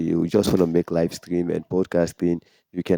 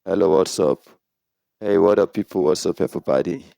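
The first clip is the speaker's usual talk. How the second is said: electronically processed greeting; mic check with electric effect on. Shown as a demonstration. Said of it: "you can see how my voice sound with the electric".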